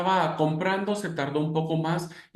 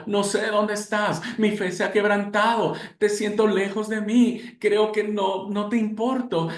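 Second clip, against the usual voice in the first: higher, a pleading lament; a believer telling God he feels abandoned, plaintive; lost believer; 5 semitones higher than usual. Acted. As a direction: pour out doubt to God.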